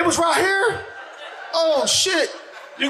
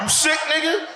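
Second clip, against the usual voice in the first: suspicious friend; 7 semitones higher than usual. Retold or imitated. Friend fearing covid cough.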